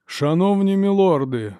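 unhurried, sing-song welcome; measured melodic voice. A narrator's reading. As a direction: address the lords like a gracious host. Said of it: "повів він розміреним мелодійним голосом".

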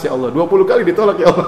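hammed-up tearful complaint in prayer; mock tearful prayer. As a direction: plead with a put-on cry. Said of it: "Dia berdoa nangis".

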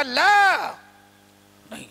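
drawn-out no, lightly acted; firmly rebuff the tempter; retold scolding refusal. Father retelling how he refused Satan, mock scolding. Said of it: "میرے والد اس طرح سے ڈانٹ رہے ہیں".

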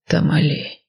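Тамали drawn out slowly, falling. A narrator's reading. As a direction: stretch Тамали long and low. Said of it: "протянул мужчина".

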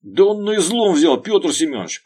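high, pained cry; groaning in pain. A narrator's reading. Bodyguard groans to his boss, in pain. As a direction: moan it from the ground. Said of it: "простонал снизу Гриня".

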